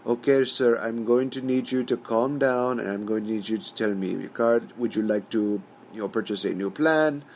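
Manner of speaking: lightly put-on Indian accent; a hint of Indian call-centre accent; mock Indian helpline agent. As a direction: imitate a stereotyped Indian help-service agent. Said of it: "Indian help service guy who's just saying".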